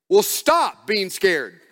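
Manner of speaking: slow, tired stop being scared; weary dad snapping at a scared kid; exasperated parent. Retold or imitated. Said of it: "To which I wanna respond".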